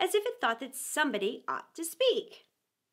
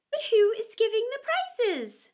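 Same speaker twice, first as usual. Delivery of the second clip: chorus of voices; 11 semitones higher, 5 dB louder than usual. Acted. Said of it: "quite a chorus of voices asked".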